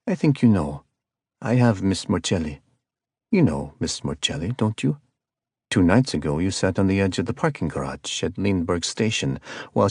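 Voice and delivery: lightly voiced cold caller with a hint of South American accent; icy calm villain. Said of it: "The tone was calm and icy cold".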